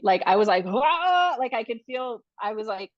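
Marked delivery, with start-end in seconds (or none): 0.7-1.4 sharp high cry of a contraction; labor cry. Retold or imitated. Mother in labor in the car, loud high cry. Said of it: "very active labor at that point".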